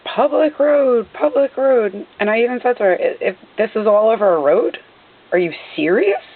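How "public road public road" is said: mild mock yell, higher and drawn out; retold scream. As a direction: imitate her yelling without raising the volume.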